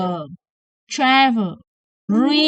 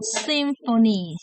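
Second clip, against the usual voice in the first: slow drill word; 3 dB quieter, slower than usual. Shown as a demonstration. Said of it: "Check it with M sound for F sound".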